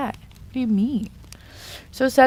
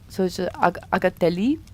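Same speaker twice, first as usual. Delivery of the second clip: Agatelli with a light French accent; soft French accent on the name; 4 dB quieter than usual. Shown as a demonstration. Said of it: "let me put my French accent on".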